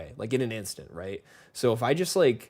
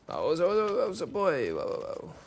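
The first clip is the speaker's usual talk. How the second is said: lightly imitated, higher-pitched Irish accent; 6 semitones higher than usual. Shown as a demonstration. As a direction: put on a bit of an Irish lilt. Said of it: "I start speaking with an Irish accent".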